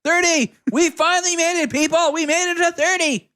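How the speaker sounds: put-on lightly old-timey radio announcer; hint of a vintage broadcaster; 1930s announcer voice. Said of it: "that your nineteen thirties voice".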